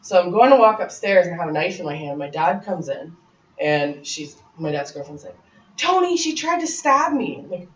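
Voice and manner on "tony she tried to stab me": much higher, slow, whiny false accusation; high drawn-out tattling voice; mock accusing girlfriend. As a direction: play the girlfriend crying wolf to the dad.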